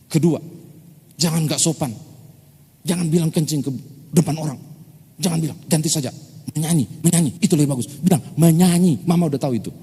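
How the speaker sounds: mother lecturing her son, loud and firm; scolding mother. Retold or imitated. Mother scolding child about manners.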